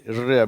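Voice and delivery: "இர்" with a lightly touched r; gentle English r in "இர்"; soft English r. Shown as a demonstration. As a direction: say "இர்" softly rounded, without a hard trill. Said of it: "ஆங்கிலத்துல மென்மையா உச்சரிக்கப்படுகிறது".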